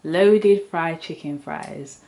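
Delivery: loaded fried chicken fries said slowly, loaded stretched; slow emphatic announcement. Shown as a demonstration.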